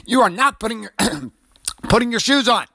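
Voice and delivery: high, emphatic correction; exasperated parent. Retold or imitated. Dad contradicting his daughter about shoes, exasperated and emphatic. Dad's retold argument with daughter.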